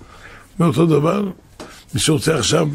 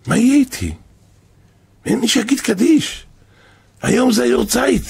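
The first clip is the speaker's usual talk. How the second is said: dead father's voice; 7 semitones higher than usual. Retold or imitated. Dead father speaks in a dream.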